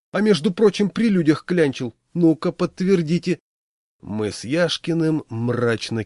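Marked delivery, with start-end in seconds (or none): 0.1-3.4 indignant. Acted. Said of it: "возмутился Пашкин".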